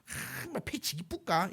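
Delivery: rough Gyeongsang saying, lightly voiced; Gyeongsang dialect. Shown as a demonstration. Preacher showing a Gyeongsang saying to the congregation, Gyeongsang dialect. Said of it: "경상도 말로".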